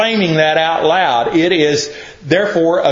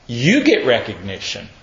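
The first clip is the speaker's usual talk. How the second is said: God's voice, lower and softer, set apart; God echoing; 6 semitones lower, 3 dB quieter than usual. Retold or imitated. God repeating the preacher's answer back, low and hushed. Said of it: "And he goes".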